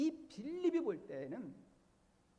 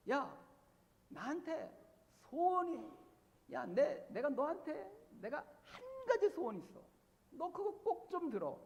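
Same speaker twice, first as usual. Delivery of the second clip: higher, earnest mock plea to a friend; pleading with a friend; 5 semitones higher than usual. Preacher imitating a believer begging his friend, pleading. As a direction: beg the friend to grant one wish. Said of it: "이렇게 이제 이야기를 하죠".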